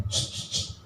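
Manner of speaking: unvoiced shushing; hushing. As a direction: shush the room. Employees hushing. (berdesis menyuruh diam)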